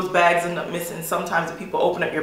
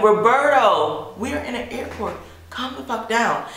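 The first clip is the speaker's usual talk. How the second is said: exasperated hushed scolding; 4 semitones higher than usual. Retold or imitated. Scolding a coworker to calm down.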